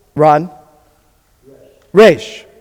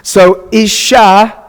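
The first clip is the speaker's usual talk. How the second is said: slow model word; 3 semitones higher, 3 dB louder, much slower than usual. Shown as a demonstration.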